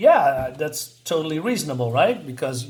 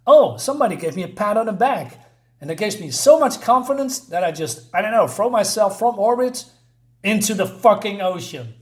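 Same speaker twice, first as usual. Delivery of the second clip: mocking hero voice; 5 semitones higher, 4 dB louder than usual. Mocking the hero's easy confidence.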